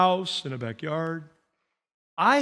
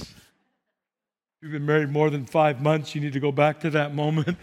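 low-key advice; 7 semitones lower than usual. Real, not acted. First step of escalating plea.

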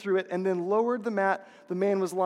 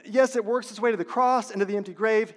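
ordinary talk, nothing marked

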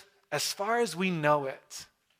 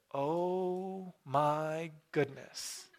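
awed whisper of wonder; 8 dB quieter, much slower than usual. Retold or imitated. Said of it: "goes something like this".

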